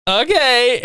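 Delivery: high, drawn put-on okay; lightly mock Santa's reply in a high voice; imitated Santa. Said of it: "Santa's just like".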